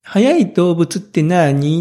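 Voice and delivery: slow, drawn-out imitation of a child's question; lightly voiced curious four-year-old, stretching the question word. Child asking father on the way to nursery, slow curious question. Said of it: "ずーっと聞いてくるんですよ".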